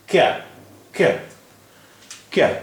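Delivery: क्या as one syllable from bare k plus ya; no vowel between k and y in क्या; joined k-ya. Shown as a demonstration. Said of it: "इसका तलफ़ुज़ है क".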